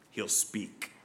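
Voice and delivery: whispered, low and hushed; a whisper before the storm; dramatic whisper. Acted. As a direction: breathe it out like a secret warning. Hushed build-up to God's wrath.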